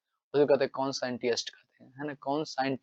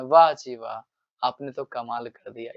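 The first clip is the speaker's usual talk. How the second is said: put-on mischievous boy praising; 3 semitones lower than usual. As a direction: tease with exaggerated praise. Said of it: "इस तरीके से". (शरारती लड़के की हल्की नकल)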